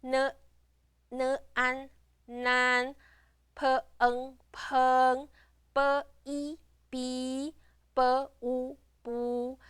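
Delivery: each part separately, then blended: "b, i, bi", "b, u, bu"; teacher modelling "b, u, bu" in even, measured chunks; blending syllables. Shown as a demonstration. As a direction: sound out "n, an", then join as "nan", on a level tone. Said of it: "we put them together".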